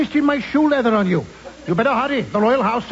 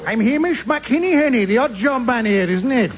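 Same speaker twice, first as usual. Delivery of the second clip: put-on lilting Welsh accent; sing-song Welsh voice. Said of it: "That's a Welsh accent".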